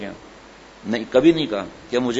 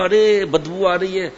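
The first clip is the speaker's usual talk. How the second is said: talking brake; 4 semitones higher, 3 dB louder than usual. Acted. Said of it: "تو بریک نے کہا".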